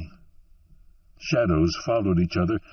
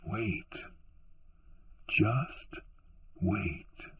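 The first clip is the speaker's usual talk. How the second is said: much softer, near breathless hush; softly; 12 dB quieter, much slower than usual. A narrator's reading. Man in black soothing the barmaid, hushed and soft. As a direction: draw her in with a hushed voice. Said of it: "he said softly".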